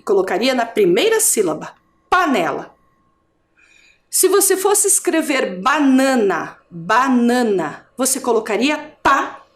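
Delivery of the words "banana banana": sounding out. Shown as a demonstration. Teacher sounds out the word.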